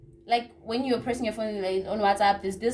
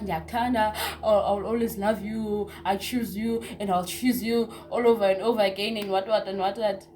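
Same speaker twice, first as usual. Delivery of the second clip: mocking the begging boyfriend; 3 dB louder than usual. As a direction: parody his usual sweet begging. Mocking how boyfriend always begs.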